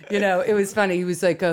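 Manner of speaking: normal talking voice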